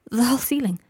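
breathy, hushed whisper; shaken whisper. A narrator's reading. Draco telling Harry the ceiling fell, whispered. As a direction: whisper it in shock.

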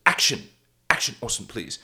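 soft cue fading almost away; timidly prompt, please barely voiced; meek little director. Director trying the slate again with Orson, meekly. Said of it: "same shitty little director guy".

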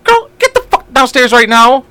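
fed-up father ordering his daughter downstairs, mock stern. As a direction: order the kid downstairs, hammed up. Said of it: "And I'm like".

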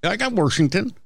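Washington said as Warshington; Warshington pronunciation. Shown as a demonstration. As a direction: copy the local Warshington. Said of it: "how they say it".

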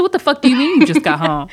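loud disbelieving what the fuck; retold outrage. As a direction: fire it back in disbelief.

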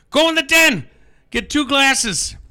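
high, loud, drawn-out command; hammed-up bossy husband, pitched high; mock shouted order. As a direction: call out orders to the wife in a joke. Joke husband orders his wife.

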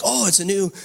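bad Irish accent. Preacher retelling Irish men's elevator excitement, bad Irish accent. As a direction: have a clumsy go at Irish. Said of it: "I can't do my Irish accent good".

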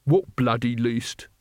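slow, surly challenge; belligerent. A narrator's reading. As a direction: throw it back as a truculent old warrior. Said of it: "sticking out his jaw belligerently".

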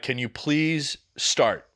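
slow, drawn-out plea; retold begging, very slow. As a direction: stretch out the plea, word by word. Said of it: "and I'm begging".

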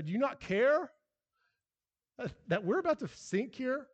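high, loud frantic cry; panicked plea. Retold or imitated. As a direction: plead like sailors about to sink. Panicked disciples voiced in retelling.

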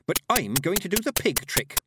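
feisty declaration; snapped. A narrator's reading. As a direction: announce it with indignant determination. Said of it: "snapped Petulia".

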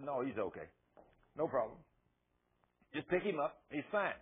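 low, unhurried, matter-of-fact comfort; calm reassurance. Acted. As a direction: wave the alarm away in short, easy phrases. Jesus reassures alarmed crowd, retold.

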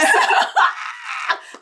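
high breathy burst of laughter; shrieking laugh. Real, not acted. Cracking up at the polite vampire line, shrieking laugh. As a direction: squeal with laughter.

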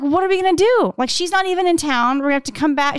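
imitating her own frantic worry about the fridge; retold panic. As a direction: replay the moment of panic. Retold panic over spoiled fridge.

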